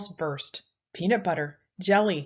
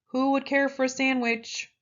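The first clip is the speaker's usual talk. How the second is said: higher, louder call from afar; a faraway voice calling out an offer; 6 semitones higher, 4 dB louder than usual. A narrator's reading. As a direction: call it out as if across the sand. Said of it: "The voice called out".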